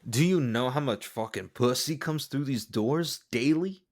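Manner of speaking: put-on a light Mexican cholo accent on a mobster's line; a loosely done Mexican cholo accent for a mob boss. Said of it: "like, a Mexican cholo accent for James Gandolfini?".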